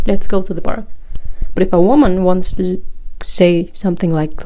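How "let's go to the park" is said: "Let's go to the park" stated simply and directly; just say "Let's go to the park", no hesitation; "Let's go to the park" as a matter-of-fact statement; firm statement. Shown as a demonstration. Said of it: "saying it as a statement".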